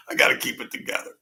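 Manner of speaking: fast whisper under the breath; whispered to himself. Real, not acted. Whispering to himself to keep from crying on camera. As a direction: hush it to yourself to stay composed. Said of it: "you had me up here half crying".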